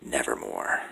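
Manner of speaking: low, hushed raven answer; raven's croak. Acted. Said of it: "Quoth the raven".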